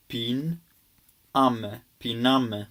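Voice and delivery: piname said slowly, syllable by syllable; slow Greek demo. Shown as a demonstration. Teacher modelling a Greek verb for students, slow. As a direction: spell out piname for the learner. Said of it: "you would say".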